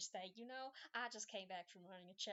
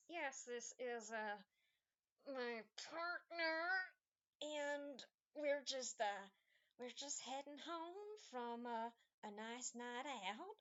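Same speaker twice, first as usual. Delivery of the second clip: forced cheery; slower than usual. Acted. Tifa smiling through a cover story.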